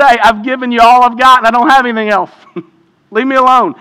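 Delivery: mock exasperation. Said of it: "He doesn't say".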